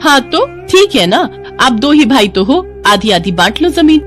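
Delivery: lightly acted pushy woman, opening high; pushy greedy sister-in-law. Greedy Malti urging the brothers to split land, pushy. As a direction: press for your share, lightly insistent.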